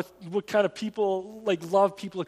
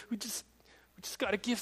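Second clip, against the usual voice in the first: whisper; 9 dB quieter, faster than usual. Real, not acted. Whispered plea in sermon.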